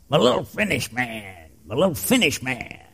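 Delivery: quietly voicing old Uncle Dewey; soft imitation of uncle. Great-uncle murmuring to a small boy on the porch, soft. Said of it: "Uncle Dewey would say".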